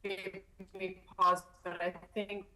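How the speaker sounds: choppy, cutting-out audio; glitchy broken connection; buffering stutter. Real, not acted. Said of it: "your video and your audio is, uh, stuttering".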